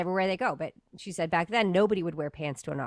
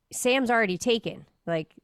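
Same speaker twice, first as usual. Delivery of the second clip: put-on mother to child; 4 semitones higher than usual. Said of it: "she basically said to the one kid".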